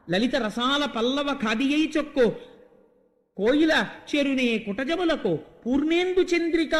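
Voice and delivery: sing-song the padyam lines; poem recital. Acted. Storyteller chanting a verse to listeners.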